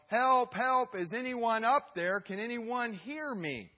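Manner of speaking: high, loud call for help that fades at the end. Acted. Calling up the cliff for help, high and loud. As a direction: hiker stranded on a cliff shouts upward. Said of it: "he would yell".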